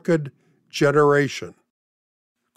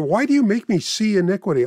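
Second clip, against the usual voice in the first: higher, fast, exasperated question; frustrated prophet; 5 semitones higher, faster than usual. Acted. Preacher voicing Habakkuk's complaint to God, fast and higher. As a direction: rush it out like a weary prophet. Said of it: "Habakkuk is saying".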